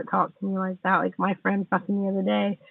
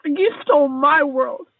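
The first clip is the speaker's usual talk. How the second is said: angry rant; 5 semitones higher than usual. Real, not acted. Heated rant at a friend who hurt her.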